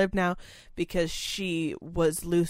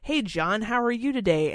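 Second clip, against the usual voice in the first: lightly higher, friendly caregiver voice; caregiver greeting; 4 semitones higher than usual. Retold or imitated. Caregiver greets resident John, lightly higher and friendly. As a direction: greet him cheerily, a touch higher. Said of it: "if I said".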